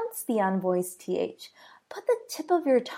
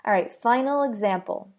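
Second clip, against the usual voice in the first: ordinary delivery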